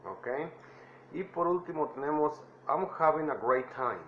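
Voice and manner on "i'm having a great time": "I'm having a great time" with stress on "having"; teacher modelling the phrase; model phrase. Shown as a demonstration. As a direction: clear model for learners to copy. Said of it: "traten de imitar mi voz".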